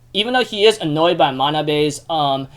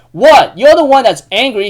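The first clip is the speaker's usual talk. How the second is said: loud, higher-pitched acted indignation; retold indignant retort; 6 semitones higher, 7 dB louder than usual. Yuki retorts to Manabe in a retold quarrel, indignant. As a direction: throw the accusation straight back.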